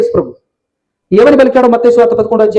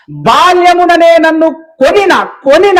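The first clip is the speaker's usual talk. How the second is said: slow recitation; 7 semitones higher, 4 dB louder, slower than usual. Shown as a demonstration. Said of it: "connect అవుతుందా?".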